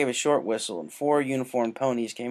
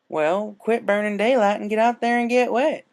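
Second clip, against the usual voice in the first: higher, louder farm-pony push; encouraging; 10 semitones higher, 7 dB louder than usual. A narrator's reading. Applejack urges Rainbow to go swim, loud encouragement. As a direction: shoo her out the door with cheer. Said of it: "A J encouraged".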